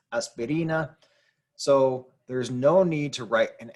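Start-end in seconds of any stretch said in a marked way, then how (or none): 0.1-1.0 "aspirina" with the pitch lifted on "ri"; stress on RI. Shown as a demonstration. Teacher showing where the inflection is, stress on "ri". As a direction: say "aspirina", leaning on the second-to-last syllable "ri". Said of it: "That's where the inflection is".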